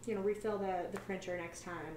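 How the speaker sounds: gentle correction. Retold or imitated. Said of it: "go over very gently".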